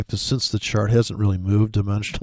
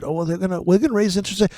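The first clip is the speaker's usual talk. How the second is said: mocking the Fed; 8 semitones higher, faster than usual. Imitating central bank excuse.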